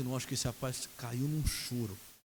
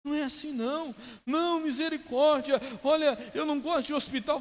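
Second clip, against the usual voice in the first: high-pitched mock pleading; imitated desperation; 12 semitones higher than usual. Fellow patient dreading hospital, imitated desperate protest. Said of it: "por que que você tá tão desesperado".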